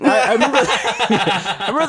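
words bubbling through real laughter; high, giggling restart; laughing. Real, not acted. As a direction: try to speak while still laughing. Still cracking up, retrying story.

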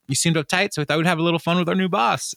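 mock cheerful coworkers.

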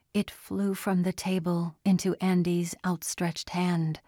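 ordinary delivery

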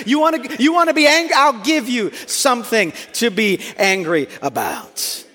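mock parent threat. Parent threatening an angry child, hammed-up mock stern. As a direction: ham up the classic parent warning. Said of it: "the classic parenting line".

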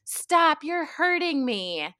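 high, pleading cries of stop; retold scream for help. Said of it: "like, screaming".

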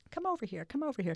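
put-on calling old lady. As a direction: call her over like the old woman did. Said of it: "she said".

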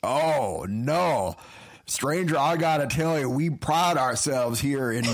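folksy frontier mayor, indignant; old prospector. Acted. Improv townsman continues.

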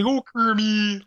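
high, breathy diva swoon; Miss Piggy voice. Retold or imitated. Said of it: "this Miss Piggy, uh, impersonation".

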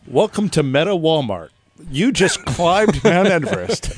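cheery store greeter voice. Pretend. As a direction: greet customers brightly.

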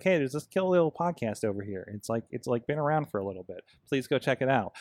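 low, soft geeky pitch; a hint of a comic-shop know-it-all, low and soft; Comic Book Guy. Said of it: "that's my comic book guy voice".

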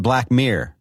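Black Mirror said with a Philly accent; Philadelphia accent. Shown as a demonstration. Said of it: "I'll say it in my Philadelphia accent".

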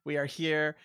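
mock-grand ceremonial address; formal speech. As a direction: speak like opening a solemn gathering. Mock ceremonial podcast opening.

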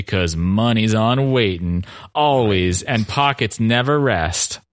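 stiff, mechanical reading voice; stilted robotic voice. Shown as a demonstration. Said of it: "read in a very stilted robotic voice".

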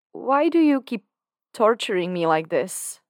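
high, loud desperate cry; anguished plea. A narrator's reading. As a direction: beg him to stop, voice straining up. Dan pleading with tormentor Lucifer.

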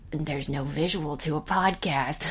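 choked-up, near-whisper voice; quietly holding back tears; teary. Real, not acted. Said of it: "I'm tearing up a little bit".

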